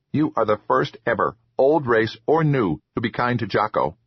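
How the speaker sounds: grateful troll, lightly voiced; eager little troll voice. Troll Jocko speaks.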